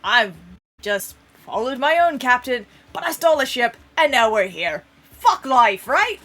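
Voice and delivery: lightly voiced frazzled captain laughing at herself; halfling captain Callie. Captain Callie answers in character.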